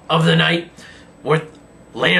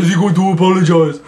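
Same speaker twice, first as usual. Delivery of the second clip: imitating Kozlov; 5 dB louder than usual. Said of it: "he's like".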